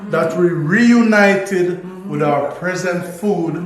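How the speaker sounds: diplomatic speech. Pretend. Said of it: "You're the best diplomat".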